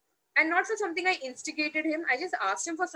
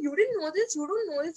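raised pitch, mock astonishment at the newcomer; incredulous put-down; 3 semitones higher than usual. Colleagues to the inexperienced newcomer, mock incredulous. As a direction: mimic judgmental colleagues' disbelief. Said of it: "people have this typical way of saying it".

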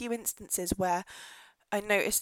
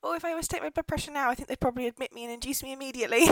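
fast and riled up; half-laughing fast rant about blood pressure; worked up; 5 semitones higher, 3 dB louder, faster than usual. Real, not acted. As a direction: rattle it off, getting heated. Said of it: "I can feel my blood boiling".

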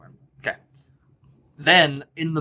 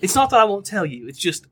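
boisterous captain; 4 semitones higher, faster than usual. Acted. GM greeting the new crew as a brash high-voiced captain. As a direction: bellow a welcome as a brash captain.

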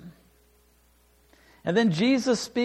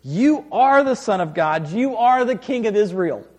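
louder, ringing cry of recognition; joyful exclamation; 3 semitones higher, 6 dB louder than usual. Retold or imitated. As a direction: proclaim it with awe and joy. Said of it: "Nathanael exclaimed".

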